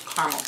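Caramel said CAR-mul, in two syllables. Shown as a demonstration. Vlogger repeats the other way to herself, Caramel as CAR-mul. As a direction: say Caramel as "KAR-mul", middle vowel dropped. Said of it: "You say caramel or caramel?".

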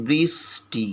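"বৃষ্টি" split as brish, then ti; teacher breaking "বৃষ্টি" after the sh sound; syllable-by-syllable pronunciation. Shown as a demonstration. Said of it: "ঠিক এইভাবে দেখো".

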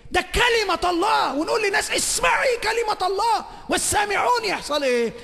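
a preacher thundering before the congregation; full-force preaching. Acted. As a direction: preach it out at the top of your voice. Preacher proclaims the word.

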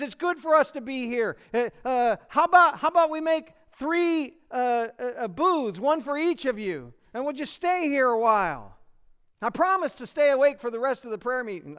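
flustered Peter. Retold or imitated. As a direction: babble like a Peter who wants the moment to last. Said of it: "And he says".

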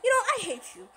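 loud, annoyed outburst; angry. Acted. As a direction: snap back at him. Arguing with Sonic.

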